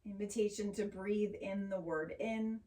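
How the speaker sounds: calm, unhurried yoga teacher voice; measured, soothing guidance with long pauses; guided meditation. Acted. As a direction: ease them gently into noticing the breath. Leads a grounding meditation.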